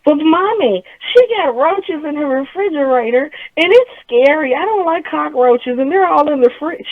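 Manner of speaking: put-on high, whining child voice; whiny little girl. Daughter protests to mommy, high and whining. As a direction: whine like a scared little kid, high. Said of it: "daughter answers back".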